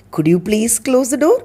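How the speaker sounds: "Could you please close the door?" asked politely with a rising end; gentle polite request. Shown as a demonstration. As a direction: ask it nicely, lifting at the end. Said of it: "அது இன்னும் பொலைட்டா".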